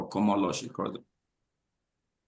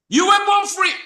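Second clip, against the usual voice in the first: much higher and louder, a preacher's ringing cry; ringing proclamation; 8 dB louder than usual. Real, not acted. Host repeating the quote to viewers, ringing loud cry. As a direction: ring it out to the whole room. Repeating the key line to audience.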